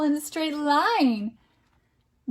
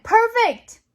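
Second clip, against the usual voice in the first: high, bright-eyed praise; excited praise; 9 semitones higher, 5 dB louder than usual. Real, not acted. Parent praising child's book task, excited. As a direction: cheer them on.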